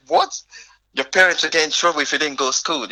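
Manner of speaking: a touch of amazed inner voice; mild disbelief. Retold or imitated.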